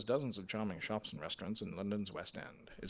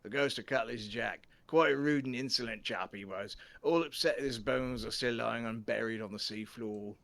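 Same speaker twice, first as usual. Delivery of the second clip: mock British accent for a rude ghost, a bit louder; 2 semitones higher, 6 dB louder than usual. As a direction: put on a British accent, telling it with relish. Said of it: "That sounds more British".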